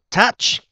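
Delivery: "Touch" high and loud with an open uh; mũ vowel. Shown as a demonstration. Teacher modelling the ou for students, emphatic mũ vowel. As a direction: punch out "Touch" with a short ớ vowel. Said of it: "đọc âm mũ".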